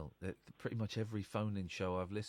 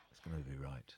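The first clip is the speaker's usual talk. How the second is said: whispering; 8 semitones lower, 5 dB quieter than usual. Real, not acted. Aside to himself.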